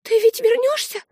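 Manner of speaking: put-on high child's voice, afraid; a small sister afraid of being left; high girl's voice, frightened; little girl in terror. A narrator's reading. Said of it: "в ужасе спросила Олив".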